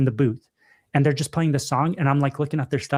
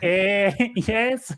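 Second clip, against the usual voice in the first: bewildered non-English speaker; 6 semitones higher than usual. Retold or imitated. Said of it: "poor lady that doesn't speak English is just like".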